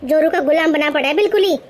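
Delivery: scolding mother-in-law. Acted. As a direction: bark at the lazy daughter-in-law. Mother-in-law mocks son and bahu. (ग़ुस्से में डाँटती सास)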